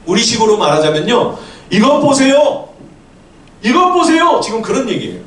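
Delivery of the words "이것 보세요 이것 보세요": high-pitched indignant outburst; angry rebuke. Acted. Elder son telling off his father, angry rebuke. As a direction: scold him like you're itching for a fight. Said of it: "아버지에게 호통을 치고 있는 겁니다".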